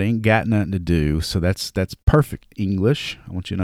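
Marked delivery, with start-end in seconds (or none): 0.0-1.2 Southern drawl. Shown as a demonstration. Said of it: "that's my Southern drawl coming out".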